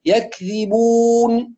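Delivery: يكذبون slow, final n clear, lips unclosed; mouth left open. Shown as a demonstration. Teacher models for students, open-mouthed nun. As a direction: end يكذبون on n without closing lips. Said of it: "ولا نضم الشفتين أو نغلق".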